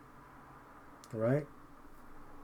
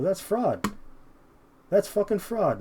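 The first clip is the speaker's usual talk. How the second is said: angry raised preaching; 8 semitones higher, 3 dB louder, slower than usual. Real, not acted. Preacher to listeners, outraged high shout. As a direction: pitch jumps high, louder, on "That's fucking fraud".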